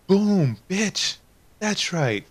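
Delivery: loud, high victory crow; gloating triumph. Retold or imitated. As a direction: crow over her like you just won. Gloating triumph over the clerk.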